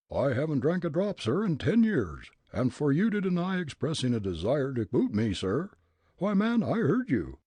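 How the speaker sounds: put-on loud, high, ranting old gent; furious old man. Old gent declaring himself mad to Fritz, blustering. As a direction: rage like a riled Leadville miner.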